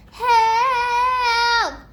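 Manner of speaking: high loud cry for help; loud shout. Retold or imitated. Man with duck wings shouts Help, high loud cry. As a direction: yell Help with everything. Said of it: "he shouted so loud".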